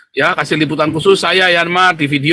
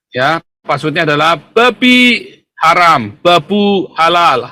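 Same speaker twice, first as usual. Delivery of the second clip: sneering panto villain; 3 semitones higher, slower than usual. Acted. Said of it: "tertawa jahat".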